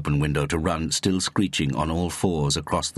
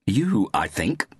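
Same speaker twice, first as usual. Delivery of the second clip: slow, higher-pitched edgy retort; snapping; 5 semitones higher, slower than usual. A narrator's reading. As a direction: snap back with edginess. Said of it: "snapped Mary".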